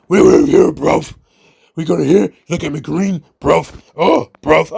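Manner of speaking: a loose, mock British bloke voice, blurred words; mocking Ospreay's accent. Wrestling vlogger mocks Ospreay's interview in a mock accent. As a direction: muddle through a thick London accent, half-joking. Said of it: "who sounds like Oscar the Grouch".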